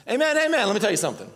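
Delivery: lively mock retort; imitating Jesus' ready comeback. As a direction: playfully voice a confident teacher cutting in. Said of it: "I just love how Jesus, like, talks to him".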